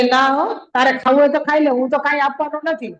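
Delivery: loud and fast, flatly refusing; defiant devotee shouting no; firm loud refusal. Acted. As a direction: throw the refusal back at him, quick and loud. Devotee refuses the demon firmly.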